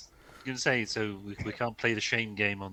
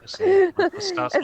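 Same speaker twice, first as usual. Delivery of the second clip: excited outburst; 11 dB louder than usual. Real, not acted. Excited jump into the conversation.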